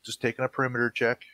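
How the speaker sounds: mock-innocent excuse; playing innocent. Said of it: "I can just be like".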